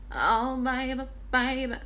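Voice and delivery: put-on sung "baby" with the word punched; emphasis on baby. Shown as a demonstration. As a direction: sing nasally, leaning hard on each "baby". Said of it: "adds an emphasis on certain words".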